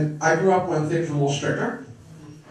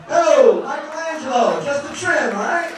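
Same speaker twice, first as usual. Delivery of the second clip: higher, mocking wiseguy call to the painter; teasing the house painter in a Brooklyn voice; 9 semitones higher, 3 dB louder than usual. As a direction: needle the painter like a Brooklyn guy. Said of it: "you look up and go".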